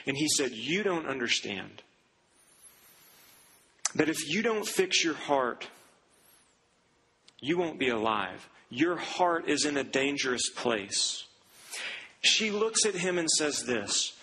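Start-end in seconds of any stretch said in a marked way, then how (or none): 0.5-11.2 grave doctor's warning. Retold or imitated. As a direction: deliver a dire diagnosis gravely. Cardiologist insists on the danger.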